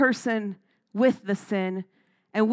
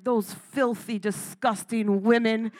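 mock disgust. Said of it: "I'm like".

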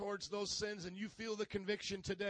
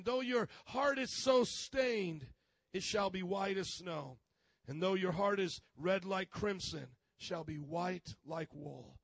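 scripture reading; 2 semitones lower, slower than usual. Acted. Preacher reads scripture aloud.

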